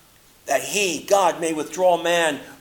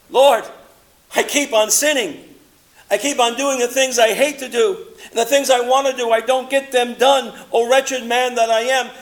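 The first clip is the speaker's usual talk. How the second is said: loud, anguished cry to the Lord; crying out to God; 8 semitones higher, 6 dB louder than usual. Retold or imitated. Paul crying out to the Lord over his sin, loud and anguished. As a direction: lift the voice and plead with God. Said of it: "he cried out".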